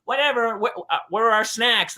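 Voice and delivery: put-on high-pitched kid voice; little girls. Girls asking for snacks after losing, high kid voice. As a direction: pipe up high like an unbothered child.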